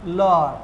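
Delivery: "लर्न" with no R, low and falling; silent R. Shown as a demonstration. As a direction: drop the R in "लर्न", drawing out the vowel. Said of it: "इसलिए इसको क्या बोलेंगे".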